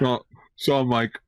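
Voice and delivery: laughing. Real, not acted. Laughing over sponsor talk.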